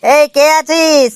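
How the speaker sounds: drawn-out call for the staff; slow exasperated call. Acted. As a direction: shout slowly for the attendant. Doctor calls out for staff.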